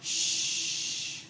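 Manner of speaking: unvoiced hush; shushing. Follower silencing a man calling for Jesus, whispered shush. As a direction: hush someone sharply under the breath. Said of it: "and you're like".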